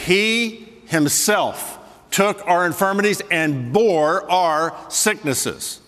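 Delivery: slow reading, each word weighed; slow quote. Shown as a demonstration. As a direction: drag out bore our sicknesses. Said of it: "There it is".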